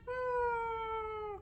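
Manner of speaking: long, soft, high steady hum; giraffe hum. Shown as a demonstration. Teacher showing giraffes humming, soft held hum. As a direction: hold a quiet humming note. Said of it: "hear the giraffes humming".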